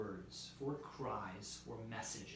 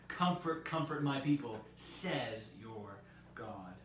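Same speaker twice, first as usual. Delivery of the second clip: louder commanding reading of God's words; 5 dB louder, slower than usual. Acted. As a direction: proclaim it as God's own command. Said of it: "God's very words".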